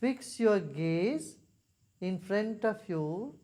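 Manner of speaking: measured instructions, spaced by long pauses; guided meditation. Real, not acted. Leads a meditation.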